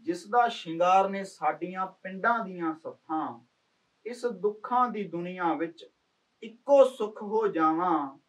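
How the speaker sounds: measured, heartfelt poem reading; poem recitation. Acted. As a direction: recite it like a village poet sharing verses. Recites own poem to friend. (ਕਵਿਤਾ ਪਾਠ ਵਾਂਗ)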